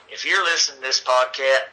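talking with something in his mouth; words muffled by something in the mouth; mouth full. Real, not acted. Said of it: "sorry, I got something in my mouth".

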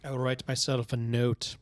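put-on slow, slight Russian accent; a light put-on Russian accent. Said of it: "now I'm talking in a Russian accent".

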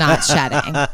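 said through a laugh. Real, not acted. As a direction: laugh while saying it. Joking about shredded sweatpants.

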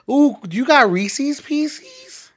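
high, slow, drawn-out mocking voice; mocking annoying people. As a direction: ham up an annoying person squealing about candy. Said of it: "I can't stand when people be like".

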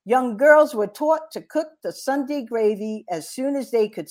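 put-on reading in a light Brooklyn accent; a rusty Brooklyn accent on the reading. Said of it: "I'll give you a little Brooklyn accent".

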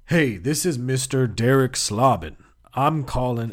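lightly disguised phone voice; a hint of a new telemarketer persona; switched-up caller voice. Caller ringing back as someone else, lightly disguised voice. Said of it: "switch up my thing and I'd call back".

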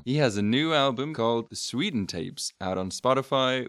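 bad Texan accent impression; Sean's Texan accent. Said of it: "Here's my impression of Sean".

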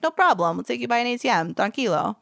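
lightly put-on Brooklyn driver; easygoing offer with a touch of Brooklyn; Brooklyn accent. Traveler imitating the van driver reassuring them, light Brooklyn accent. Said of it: "Why does he have a Brooklyn accent?".

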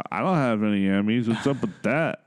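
lightly put-on comedian impression; a hint of a complaining celebrity voice; Pauly Shore. Co-host imagining a comedian without Emmys, light impression. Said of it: "Pauly Shore would be like".

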